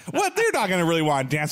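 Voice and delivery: very high startled What; shocked squeak. Acted. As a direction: squeak it out in disbelief. Voicing startled Vader.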